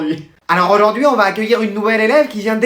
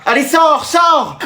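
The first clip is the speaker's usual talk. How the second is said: higher, urgent command; insistent order; 6 semitones higher, much slower than usual. Acted. Colleague to teacher locked in the toilets, insistent order. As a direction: order them out impatiently.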